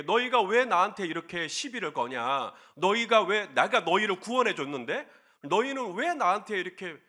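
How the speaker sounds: lightly acted scolding, pressing each question; mock-reproach them, question after question; mild indignant reproach. God imagined scolding Israel. (약간 따지듯 나무라는 말투)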